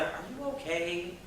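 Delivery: soft, slow, gently worried asking; concerned girlfriend. Retold or imitated. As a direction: ease into it like checking on someone you love. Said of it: "approached him at some point and said".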